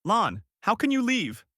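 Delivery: understated anguished cry; restrained scream. A narrator's reading. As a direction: cry out without much volume.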